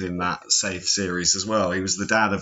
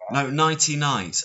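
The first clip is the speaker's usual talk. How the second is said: higher, emphatic "Nighty Night"; corrective emphasis; 5 semitones higher than usual. Shown as a demonstration. Correcting co-host who heard ninety-nine, emphatic "Nighty Night". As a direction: insist on "Nighty Night", pitched up to correct them. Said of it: "I think it's ninety-nine".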